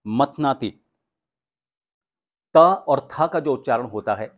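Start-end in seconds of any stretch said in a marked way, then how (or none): 0.1-0.8 slow, loud, syllable by syllable "सागरम सुधाम मथनाति"; slow careful recitation. Shown as a demonstration. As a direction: recite it slowly to teach. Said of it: "वाक्य है".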